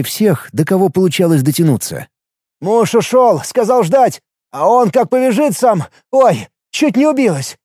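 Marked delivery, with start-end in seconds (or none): 2.6-7.6 high-pitched, plaintive housewife voice; flustered wife act. A narrator's reading. Posing as a stranded wife to guards, flustered high voice. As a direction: babble like a helpless wife.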